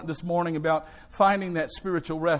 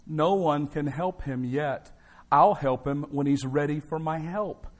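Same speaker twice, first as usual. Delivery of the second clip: calm but firm; 3 semitones lower than usual. Acted. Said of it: "calmly but firmly".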